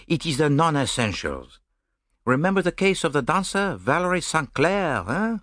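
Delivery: Poirot chiding Hastings over trifles; Poirot exasperated. Acted.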